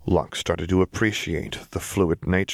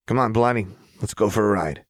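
put-on higher, playful wild girl; Jinx voice; 3 semitones higher, faster than usual. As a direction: impish invitation. Jinx invites Lux.

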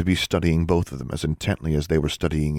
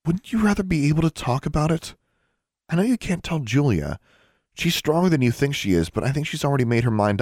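high, gentle coaxing; softer appeal; 9 semitones higher than usual. A narrator's reading. Sister coaxing miserable brother, softly. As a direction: coax gently in a raised pitch. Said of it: "she spoke more softly".

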